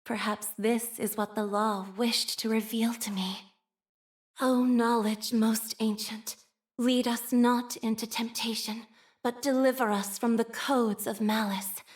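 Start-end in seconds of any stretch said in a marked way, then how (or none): 4.4-11.8 measured, reverent prayer; solemn prayer. Acted. Android nun praying to ancient knowledge, reverent.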